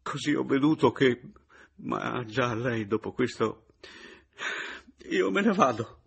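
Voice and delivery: fighting back tears; choked with anguish. A narrator's reading. Papiano announcing he leaves, choked up. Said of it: "come strozzato dall'angoscia".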